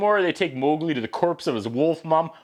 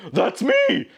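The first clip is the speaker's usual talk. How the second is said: laughing mock tiger; 7 semitones higher than usual. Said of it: "then Shere Khan goes".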